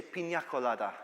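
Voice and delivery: "pina colada" said the Spanish way, with a ny sound in "pina"; Spanish-style "pina colada"; Spanish pronunciation. Shown as a demonstration. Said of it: "Do you say pina colada?".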